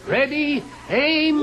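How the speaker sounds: high, loud firing squad call; loud military countdown; shouted command. Acted. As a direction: bark out ready and aim.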